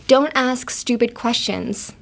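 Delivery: slow, clear teaching read; slow model sentence. Shown as a demonstration. Teacher reads the phrase slowly to the class. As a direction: say each word slowly for learners. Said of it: "So in English".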